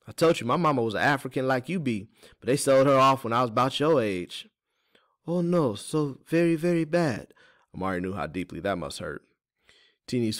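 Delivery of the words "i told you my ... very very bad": high character voice; folksy Teeny, recalling loss. Acted. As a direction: recall a painful past in a folksy voice.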